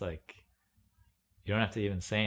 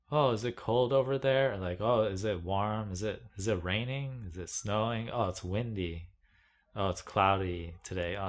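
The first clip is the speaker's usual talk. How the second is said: mocking small talk. Mimicking people who ask about the weather, mocking. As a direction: parody the boring small talker.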